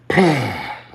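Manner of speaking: big loud exhale of surrender; resigned sigh. Retold or imitated. Passenger accepting his fate on the plane, resigned sigh. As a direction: blow out a heavy breath, giving in.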